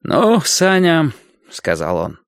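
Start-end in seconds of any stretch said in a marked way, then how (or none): 0.0-1.1 drawn-out, higher, fond goodbye; farewell. A narrator's reading. Doctor taking his leave of Sanya, drawn-out farewell. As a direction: stretch it out as a parting.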